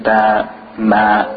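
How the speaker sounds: BA, MA with a thin, spread vowel; thin letters, smiling. Shown as a demonstration. Teacher contrasting light letters with thick ones, smiled thin ba, ma. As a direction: smile as you say ba, ma. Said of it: "we smile when we say it".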